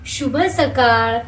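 शुभ सकाळ said slowly, each word stretched; slow teaching model. Shown as a demonstration. Mother repeating the greeting for her child, slowly. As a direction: draw out शुभ सकाळ to be copied. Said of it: "मम्मा कसं म्हणते बघ".

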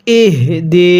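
slow ইহ দি with a breathed, sounded h. Shown as a demonstration. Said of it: "উচ্চারণের সময় আওয়াজ করবেন".

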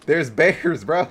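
high, loud alarmed calls; alarmed shouting. Real, not acted. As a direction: holler for backup. Bears loose, calling for help.

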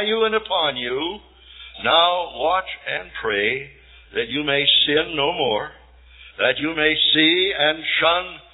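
preaching a sermon reading. Acted. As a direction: preach the old sermon with weight, slowing on key words. Reads Wesley's sermon aloud.

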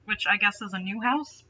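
ordinary talk, nothing marked

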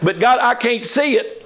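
high, whiny plea to God; pleading believer. Acted. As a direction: beg God like a frustrated believer.

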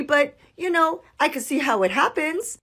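unbothered. Retold or imitated. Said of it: "we've seen it all".

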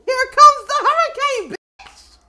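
high, loud mock fanfare; hype announcement. Player hyping the hurricane's arrival, high loud call. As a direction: holler it like a big entrance.

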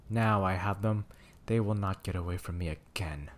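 a mild scornful gloat from the witch. Acted. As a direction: sneer it out, only lightly. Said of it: "spoke scornfully".

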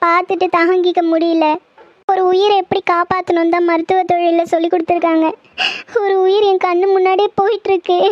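pleading through tears over the death; upset doctor near tears, unable to accept a death; tearful. Acted. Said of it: "please அழாத நிலா".

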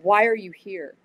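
loud retold demand; harsh question, punched on why. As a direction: imitate an intense woman questioning a stranger. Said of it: "was kinda harsh".

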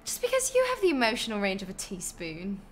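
put-on quick British-accented scolding; Hermione. Streamer practising British with film quotes, British-accented put-down. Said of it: "I need more, like, Hermione quotes".

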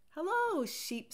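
hello sung out high; bright hello. A narrator's reading. Duck greeting Sheep with a high cheery hello. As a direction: call out cheerily.

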